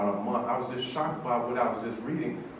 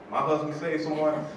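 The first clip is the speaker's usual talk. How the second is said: lightly voiced woman on the phone; imitated elderly wife; 2 semitones higher than usual. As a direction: give a hint of the puzzled wife's voice. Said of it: "That's how she sounded".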